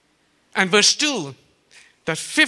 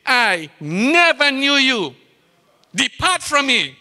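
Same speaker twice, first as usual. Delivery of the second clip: solemn rejection; slower than usual. Acted. God's rejection quoted again.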